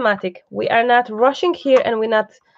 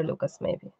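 whispered aside; 3 semitones lower, 6 dB quieter than usual. Real, not acted. Aside to cameraman during live.

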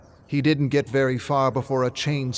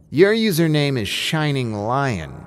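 put-on confident girl; 5 semitones higher, 4 dB louder than usual. New girl approaches Min.

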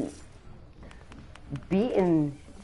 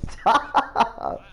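laughing. Real, not acted. Laughing at friends' pranks.

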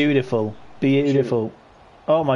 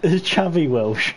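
mocking repeat; slower than usual. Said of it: "Did you just say it's Xavi Welsh?".

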